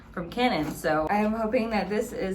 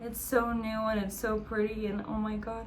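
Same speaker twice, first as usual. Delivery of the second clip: awed; 3 semitones higher, 6 dB quieter than usual. Real, not acted. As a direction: marvel at it, breathless. Awed by the camera.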